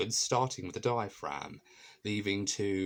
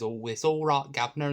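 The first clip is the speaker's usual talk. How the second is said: Cockney; 6 semitones higher than usual. Retold or imitated. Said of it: "this Cockney person who says".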